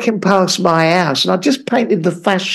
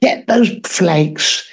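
slow, prim baker's voice; mock Mary Berry; 3 semitones lower, much slower than usual. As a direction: instruct like a genteel TV baker, slowly.

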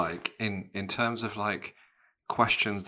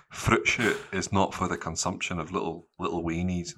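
lightly voiced Scottish mum; freak mum in Scottish accent. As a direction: lay down the rule in Scottish. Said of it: "like, a freak mum that said".

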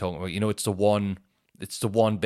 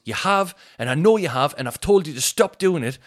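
scolding shopkeeper; 6 semitones higher, 5 dB louder than usual. Retold or imitated. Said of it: "He goes".

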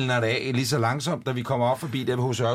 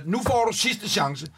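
stern ultimatum, retold; 4 semitones higher than usual. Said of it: "Så bliver jeg så rasende".

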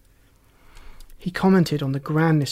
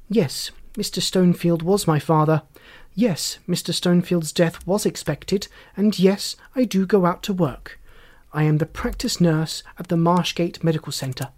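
lightly voiced formal, composed daughter; formal witness. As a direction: answer each point with firm precision. Daughter answers inspector formally.

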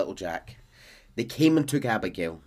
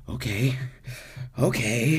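lightly acted gasping for air; halting words between laboured breaths; Arthur; 3 semitones higher, slower than usual. Arthur holding himself as he struggles, mildly winded gasping. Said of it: "like, gasping for air".

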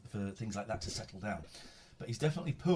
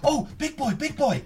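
cooing at a pet; 12 dB louder than usual. Real, not acted. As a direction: coo at the cat. Greeting the cat.

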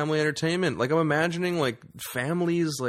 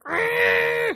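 shout; 8 dB louder than usual. Retold or imitated. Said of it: "the kid is like".

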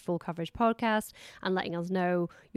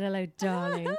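breathy vintage purr; 4 semitones lower than usual. Retold or imitated. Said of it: "just walked in when I said".

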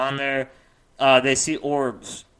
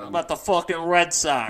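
put-on Boston accent; 3 semitones higher than usual. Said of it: "throwing you off with the accents".

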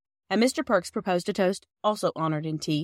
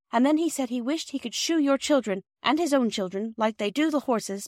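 put-on higher, eager girl's voice; earnest young girl; 6 semitones higher than usual. Girl passing on a neighbour's praise to Perks, eager and higher. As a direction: explain earnestly, pitched up.

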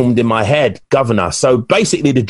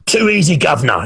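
higher-pitched mock Canadian accent, dropping at the end; imitated Canadian accent; 3 semitones higher than usual. Client taunts his trainer between sets, imitated Canadian accent. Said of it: "in his Canadian accent".

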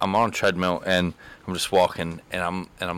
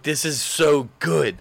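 excited inner voice; 5 semitones higher, slower than usual. Retold or imitated. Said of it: "so excited".

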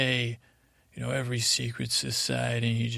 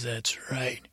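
hushed, menacing whisper; 4 dB quieter than usual. Acted. Brimley grabbing the listener, whispered. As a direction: whisper it as you grab someone. Brimley grabs and confronts him.

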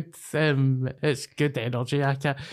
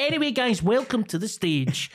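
higher showman's stage introduction; compère voice; 5 semitones higher than usual. Retold or imitated. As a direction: announce the act like a club host. Compère introducing next act.

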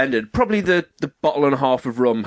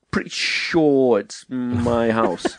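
slow dry sarcasm; much slower than usual. Retold or imitated. Dry retort.

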